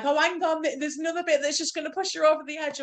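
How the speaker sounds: high, teasing mock director voice; imitating the director. Friend imitating the festival director teasing the crying audience, high. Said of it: "And then he's like".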